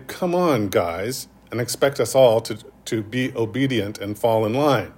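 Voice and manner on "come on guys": tired gym teacher. Retold or imitated. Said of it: "to say".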